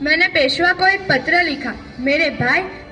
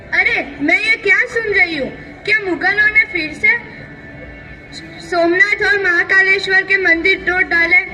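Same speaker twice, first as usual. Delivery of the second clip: mildly raised, outraged questioning; indignant disbelief. Acted. Queen hears Mughals broke temples again, indignant disbelief. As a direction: react in stern shock to bad news.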